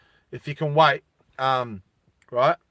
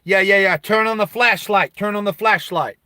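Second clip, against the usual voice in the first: put-on nervous kid; 4 semitones higher, 4 dB louder than usual. Kid in the dark sewer.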